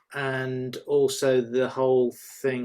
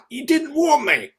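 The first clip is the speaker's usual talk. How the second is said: high, loud teasing complaint; playful protest; 8 dB louder than usual. Acted. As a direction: tease her back, laughing.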